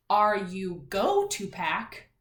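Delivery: slow, spaced-out "Are you go to pack"; wrong example. Shown as a demonstration. Teacher showing class what you wouldn't say, slow deliberate question. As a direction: sound out the faulty question word by word. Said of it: "'Cause you wouldn't say".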